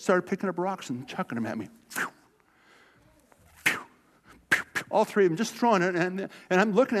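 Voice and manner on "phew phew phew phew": quick breathy whoosh sounds; whizzing rock noises. Retold or imitated. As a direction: mouth whooshes of rocks flying past. Imitating rocks whizzing by.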